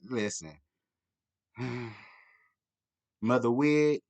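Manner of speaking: normal talking voice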